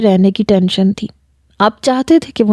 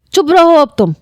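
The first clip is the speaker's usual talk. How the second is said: angry command; 8 semitones higher than usual. Acted. He silences her in anger.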